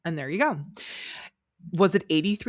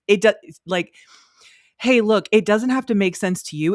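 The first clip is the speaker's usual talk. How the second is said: louder, higher, brushing off the critics; sassy comeback; 3 semitones higher, 5 dB louder than usual. Retold or imitated. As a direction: throw it back at them with attitude. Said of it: "her biggest and most famous response is".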